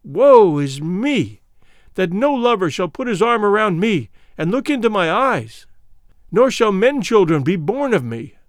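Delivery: a lightly voiced high, pleading lament; anguished lament. Fulada begging for her life before the king, mild anguished pleading lament. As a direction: plead for her life in despair, mildly acted. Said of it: "wrung her hands in anguish and cried out aloud".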